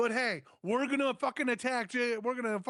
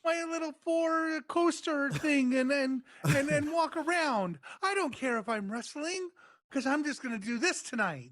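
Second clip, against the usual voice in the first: mocking Talon; 4 semitones higher than usual.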